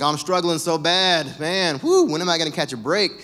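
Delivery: milk the struggle, hammed-up; mock self-pity. Acted self-pitying Facebook post.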